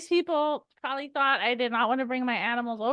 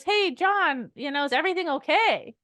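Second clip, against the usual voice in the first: concerned check-in; 3 semitones higher than usual. Shown as a demonstration. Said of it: "the best thing you can do is".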